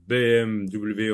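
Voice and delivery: B M W, each letter slow and separate; spelled letter by letter. Shown as a demonstration. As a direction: say B M W letter by letter, slowly. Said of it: "on dit B M W". (épeler B M W lentement)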